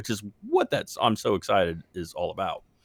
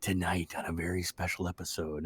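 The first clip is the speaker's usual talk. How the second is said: TV announcer voice; 3 semitones lower, 8 dB quieter than usual. Retold or imitated. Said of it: "eighties and nineties T V shows".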